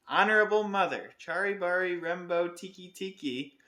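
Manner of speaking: high, loud and out of breath; lightly gasped child's cry; gasping boy. Acted. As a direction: gasp the name out urgently. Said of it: "he gasped".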